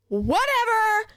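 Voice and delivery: high, slow laughing dismissal; amused sarcastic whatever. Real, not acted.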